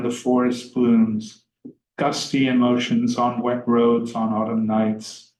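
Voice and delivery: measured, even recital of verse; poem reading. Acted. Lecturer reading Stevens aloud to students, measured recital.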